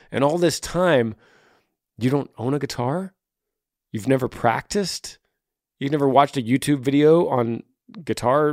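acted incredulous questioning. Acted disbelief at guitarless would-be player.

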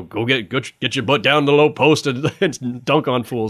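a hint of a gruff big man barking advice; old-school big man. Podcaster quoting old-school big men, a lightly voiced impression. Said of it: "Is that, is that your Shaq impression?".

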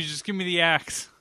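unvoiced conspiratorial whisper. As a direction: breathe it as a secret. Whispered mock line.

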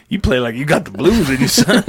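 imitating adults in Walk Hard; old bluesman. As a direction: tell the kid he has the blues. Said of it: "and they're like".

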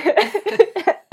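high squealing real laugh; burst of laughter. Real, not acted. Laughing at own joke.

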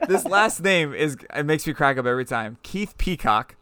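stifled giggles. Real, not acted. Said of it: "I'm trying not to laugh here".

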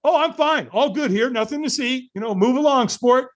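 high-pitched "all fine" cover-up; fake breezy denial. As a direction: lie that everything is okay. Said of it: "We lie".

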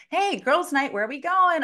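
girls'-night squeal of a greeting, acted out; excited girlfriends. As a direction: call out to the group for a night out. Girlfriends voiced planning girls' night.

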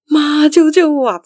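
high, loud, drawn-out cry for help; mock crying plea. Caller begging mum to save him, mock crying plea. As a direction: imitate a wailing plea, slow and high. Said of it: "里面就是一个男子在哭".

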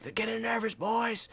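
high yell without full volume; retold rallying call. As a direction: egg on the teammates in a held-back shout. Retold rallying yells to his teammates.

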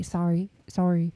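Sorry said like sari, open ah vowel; St. Louis accent on sorry. Shown as a demonstration. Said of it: "so almost English to me".

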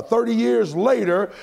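ordinary delivery

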